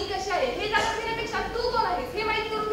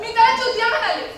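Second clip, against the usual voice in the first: laughing confession; 3 semitones higher, 7 dB louder than usual. Acted. Shy confession of the insult.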